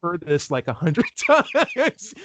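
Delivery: drawn-out high weary mock voice; laughing mock boredom; bored been-there. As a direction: play the jaded local, stretching it slowly. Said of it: "Reed is just like".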